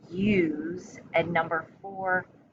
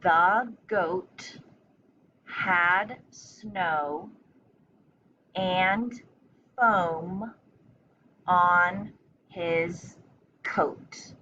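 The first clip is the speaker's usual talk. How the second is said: slow reading, every word spaced apart; slowly; much slower than usual. Shown as a demonstration. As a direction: read it slowly to the class, one word at a time. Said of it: "I'll say it, uh, slowly one more time".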